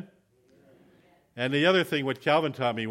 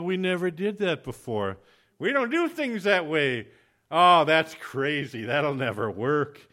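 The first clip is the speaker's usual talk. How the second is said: loud, drawn-out dismissive objections; pooh-pooh it like a stubborn churchgoer; mock discouraging naysayers; 4 semitones higher, 7 dB louder, slower than usual. Church people shooting down a Christian's idea, mock dismissive. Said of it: "first people to discourage him".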